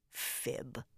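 very soft, breath-only mutter; low whispered aside. A narrator's reading. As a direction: mutter it under your breath, barely audible. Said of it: "I muttered".

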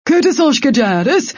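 high-pitched defiant call; called back. A narrator's reading. Sword's power calls back to the accusing enemy, defiantly. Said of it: "Gil's power called back".

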